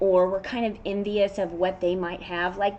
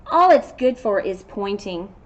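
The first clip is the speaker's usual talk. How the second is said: slow, louder, downplaying his horn; a gloomy unicorn voice; glum unicorn; 8 dB louder, slower than usual. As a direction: shrug it off like it's nothing.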